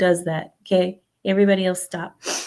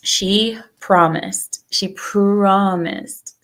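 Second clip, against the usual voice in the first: skeptical drawn-out; 3 dB louder, much slower than usual. Real, not acted. Doubting friend will come.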